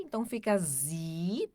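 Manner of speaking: zi with Z sound and long I; German pronunciation. Shown as a demonstration. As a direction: say zi with a buzzing Z. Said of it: "O S som de Z". (zi com som de Z e I longo)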